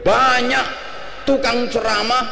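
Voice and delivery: fiery preaching. Real, not acted. Preacher's forceful critique.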